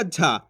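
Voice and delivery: "झा" with a breath-released voiced j; aspirated jh. Shown as a demonstration. Teacher explaining the difference to learners, aspirated "झा". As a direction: say "झा" with a puff after the j. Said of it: "उच्चारण आपको समझना है".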